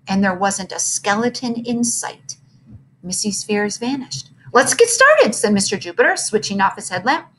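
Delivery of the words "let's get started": cheerful. A narrator's reading. Mister Jupiter cheerful.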